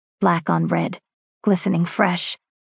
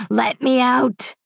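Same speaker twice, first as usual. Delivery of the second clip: slow roaring demand; 5 semitones higher, slower than usual. Acted. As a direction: let the beast inside bellow to be freed. Inner wolf urging to be freed.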